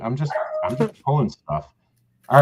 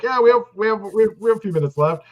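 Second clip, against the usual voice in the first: mocking the host; 7 semitones higher than usual. Teasing the host about stalling for time, in a high mock voice. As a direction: parrot the host's stalling, pitched up and bouncy. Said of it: "and you're like".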